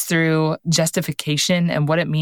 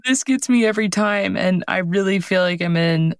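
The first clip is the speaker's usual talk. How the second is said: crying. Real, not acted. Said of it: "I'm sorry, I'm crying again".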